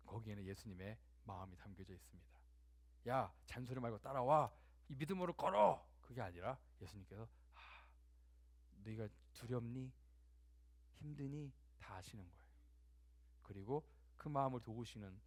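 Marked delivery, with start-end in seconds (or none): 3.1-5.9 acted impatient command, rising at the end; stern command that climbs in pitch and volume; brusque order. Acts a harsh command Jesus doesn't give. 7.5-11.5 soft, tender questions after a sigh; hushed, caring voice; gentle concern. Acted. Acts gentle Jesus against the harsh order.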